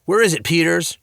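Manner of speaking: loud, forceful demand. A narrator's reading. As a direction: demand an answer. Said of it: "Dad demanded".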